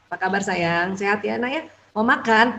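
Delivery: put-on quiet, soft, caring stepmother to her child; tender greeting. Shown as a demonstration. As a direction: ask gently, no pressure at all.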